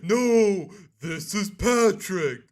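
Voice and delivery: loud, high, drawn-out cartoon shout; Patrick. Streamer echoing the SpongeBob clip, shouted impression. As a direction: bellow the catchphrase slowly as a cartoon doofus. Repeats Patrick's line louder.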